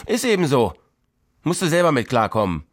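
snapping back. Acted. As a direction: snap back, brushing her off. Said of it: "Suse patzte zurück".

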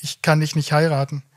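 halting start, long catch after "Ich"; retold stutter. Groom tells fiancée he cannot marry her, haltingly. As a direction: stumble on the first word, then get it out. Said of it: "ich stottere weiter".

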